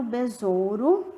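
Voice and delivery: besouro said slowly with a rise; slow demo word. Shown as a demonstration. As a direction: model besouro carefully. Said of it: "aí vem um exemplo". (besouro dito devagar)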